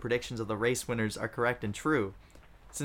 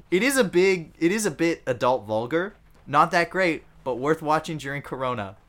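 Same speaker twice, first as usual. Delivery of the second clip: mock Southern reviewer; 4 semitones higher, 6 dB louder than usual. Reads review aloud in voice.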